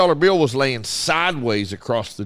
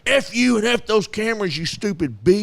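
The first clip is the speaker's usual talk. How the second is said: mock angry outburst; 7 semitones higher than usual. Angry customer cursing at cashier.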